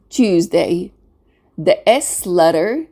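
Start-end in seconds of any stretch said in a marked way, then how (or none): 0.1-0.9 "Tuesday" with the S said as a Z. Shown as a demonstration. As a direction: model Tuesday as TUEZ-day, ending on a rise. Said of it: "we pronounce it as a Z sound".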